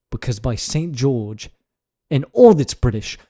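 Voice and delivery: hammed-up British scolding; theatrical telling-off in a fake British accent; bad British accent. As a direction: put on an unconvincing British accent and scold them. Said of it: "how bad his accent was".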